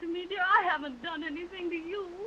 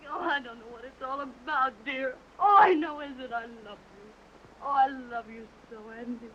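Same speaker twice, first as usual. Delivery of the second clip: tearful; 6 semitones lower than usual. Acted. Woman in tears over lover.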